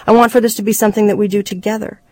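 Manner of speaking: quick, insistent plea; earnest appeal. Acted. Husband wanting his wife included, earnest appeal. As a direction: press to include them, moving quickly.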